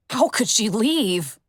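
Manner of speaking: slow, dismayed crowd voice; dismayed pony. Acted. Another crowd pony slowly lamenting her leaving.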